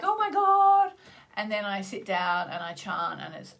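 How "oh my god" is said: high, loud mock panic; frazzled exclamation. Recounting arrival at chanting to viewers, hammed-up frazzled exclamation. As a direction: cry it out, hammed-up and frantic. Acts out morning rush to chanting.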